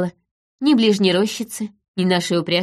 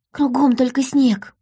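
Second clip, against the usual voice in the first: lightly voiced child, higher and slow; daughter's voice; 5 semitones higher than usual. A narrator's reading. Daughter telling mother there is only snow, high slow voice. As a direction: draw it out as a small girl.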